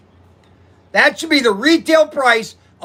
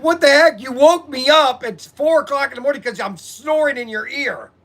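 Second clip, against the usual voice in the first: exasperated; 4 semitones higher than usual. Retold or imitated.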